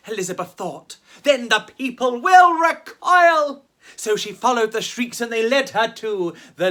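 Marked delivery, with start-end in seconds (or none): 1.2-3.7 put-on much higher, louder eager girl voice; a lonely ghost sensing a friend; high, bright-eyed eagerness; hopeful ghost girl. Elizabeth's scheming thought.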